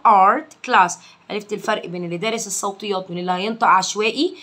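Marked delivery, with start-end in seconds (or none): 0.1-0.9 ART loud, with a heavy backed vowel before R; dark emphatic A. Shown as a demonstration. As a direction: demonstrate art with a darkened A. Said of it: "دي اتنطقت مفخمة عشان". (نطق art بألف مفخمة وبصوت عالٍ)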